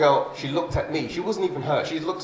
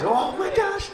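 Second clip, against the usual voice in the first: cartoon kid voice; 3 dB quieter, slower than usual. Kids excited in cartoon voice.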